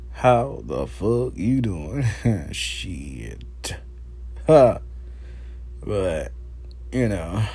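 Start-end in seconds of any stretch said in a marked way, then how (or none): 0.1-2.0 slow, plain masculine greeting; masculine version. Shown as a demonstration. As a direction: keep it straight and manly. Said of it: "I'm masculine, I keep it like it is".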